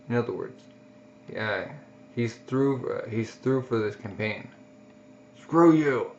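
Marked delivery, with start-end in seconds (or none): 5.4-6.1 angry retort. Acted. Guts defying the doctor who orders rest, angry retort. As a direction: spit it back at the doctor.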